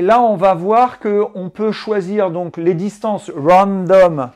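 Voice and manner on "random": "random" said in English with a light French accent; a French speaker saying the English word "random", a bit self-conscious. Real, not acted. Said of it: "j'espère que tu m'excuseras de mon accent".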